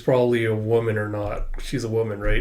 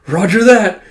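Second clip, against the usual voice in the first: crisp; 5 semitones higher, 7 dB louder than usual. Retold or imitated. Character snaps to attention.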